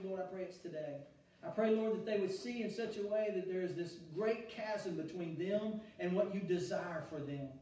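steady, earnest prayer voice; closing prayer. Acted. Leads a prayer.

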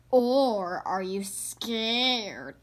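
slow, drawn-out taunt; teasing. Acted. Brother teasing Sister about being scared. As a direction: needle her slowly. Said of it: "teased Brother".

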